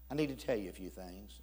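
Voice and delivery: low, soft and confiding; subdued, grave retelling of a stranger; tone turning serious. Retold or imitated. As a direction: drop the voice for something serious. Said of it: "his tone starts changing".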